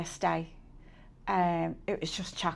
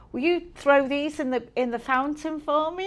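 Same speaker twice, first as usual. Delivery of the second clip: higher-pitched attempt at an American accent; poor American accent; 5 semitones higher than usual. American tourist asks her to throw coins, poor American accent. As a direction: imitate an American, badly. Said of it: "Poor accent is getting worse".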